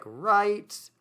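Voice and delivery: high, lifted "Right"; rising "Right" as a tag question; confirming "right". Shown as a demonstration. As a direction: ask for agreement, brightly. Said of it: "We often in English will say th-, things like".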